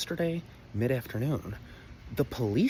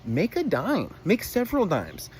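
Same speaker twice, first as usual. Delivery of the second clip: urging; 7 semitones higher, 4 dB louder, slower than usual. Real, not acted. Urging parents to cash in.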